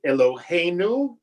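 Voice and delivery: Eloheinu stressed on the next-to-last syllable, hei; stress on the penultimate. Shown as a demonstration. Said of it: "the penultimate, uh, syllable".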